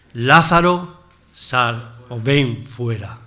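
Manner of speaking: a commanding call, LÁZARO loud, then a slow drawn-out "sal o ven fuera". Acted. Jesus before the tomb, a slow commanding loud call. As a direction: command the dead man out of the tomb. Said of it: "gritó fuerte, con fuerte voz".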